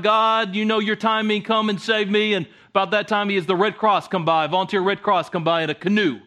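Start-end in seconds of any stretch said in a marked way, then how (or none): 0.0-2.3 mild cry to God. Acted. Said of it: "he's crying out".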